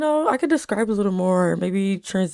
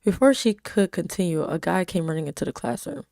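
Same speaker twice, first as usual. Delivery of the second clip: even storytelling read; story narration. A narrator's reading. Reading her story aloud.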